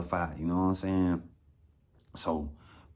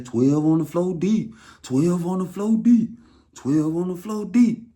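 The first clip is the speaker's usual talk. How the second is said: louder, higher repeated warning call; mock urgent warning; 8 semitones higher, 6 dB louder than usual. Guy behind door warning about cops, loud urgent call.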